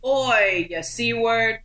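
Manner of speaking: short mock Australian heckle; Australian accent. Player asked for best Australian accent, cheeky Australian insult. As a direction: call it out in a broad Australian accent. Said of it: "do their best Australian accent".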